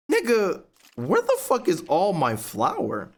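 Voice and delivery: high, slow outraged demand; mock outrage. Quoting himself confronting roommate over missing flour, outraged. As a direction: demand to know where the flour went. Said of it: "I'm like".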